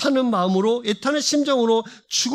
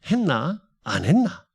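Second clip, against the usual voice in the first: Gyeongsang dialect; 3 semitones lower than usual. Retold or imitated. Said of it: "뭐라고 대답해야 되죠".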